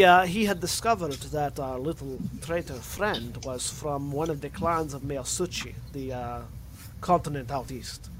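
muddled Scottish-Russian storyteller; Scottish accent slipping into Russian. Acted. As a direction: let the Scottish drift towards Russian. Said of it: "slowly getting into Russian accent".

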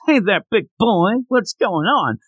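a hint of a come-hither Mae West purr. Flirting with the fighter, a light Mae West purr. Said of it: "should talk like Mae West".

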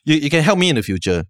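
mock eager filmmaker; imitating a producer. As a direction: play the keen producer pitching a favour. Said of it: "And they were like".

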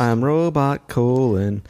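robot voice. Pretend. Joking robot persona.

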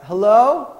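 a high, loud, nervous call into the dark; nervous shout. Retold or imitated. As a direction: call out to sound brave but scared. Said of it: "and then I just shout out".

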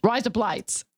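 "Rise up, lights" blended like an Australian "razor blades"; Australian take, words run together; Aussie accent. Shown as a demonstration. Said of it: "Razor blades in Australian".

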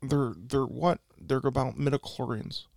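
lightly voiced filmmaker impression; halting, lightly put-on director's voice; George Lucas. Director pitches his Star Wars script to Tommy, lightly voiced George Lucas. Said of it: "I like doing my George Lucas".

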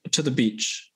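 usual speaking voice

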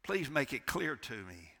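pleading whisper to God; whispered prayer. Retold or imitated. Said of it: "praying and asking God".

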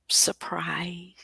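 whispered teasingly; playful conspiratorial whisper; secretive whisper. Real, not acted. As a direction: drop to a hush to keep the surprise. Teasing hint of a surprise.

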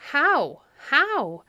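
high, loud urgent questions; crying out. A narrator's reading. Abbot asking his shepherd for the plan, crying out. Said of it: "cried the abbot".

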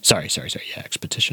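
whispered, sheepish correction; embarrassed whisper. Real, not acted. Correcting own slip after friends laughed, whispered. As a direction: breathe it out, caught out.

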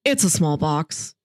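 low, downcast, understated delivery; imitated sadness. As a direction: say it reluctantly, no snark or menace. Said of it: "He sounds sad".

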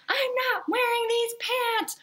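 high whiny child voice, imitating her daughter; mock a stubborn little girl refusing; defiant toddler. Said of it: "and then Rosie's like".

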